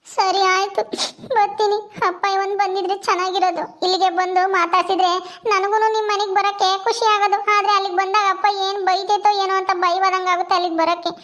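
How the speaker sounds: crying daughter fretting about her father; tearful. Acted. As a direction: speak through mild tears. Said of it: "ಸುಮ್ನಿರು, ಅಳ್ಬೇಡ".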